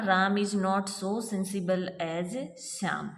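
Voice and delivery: slowly, word by word; slow reading. Shown as a demonstration. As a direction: spell the sentence out slowly. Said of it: "तो देखिए ये जो है ना". (धीमे-धीमे पढ़ना)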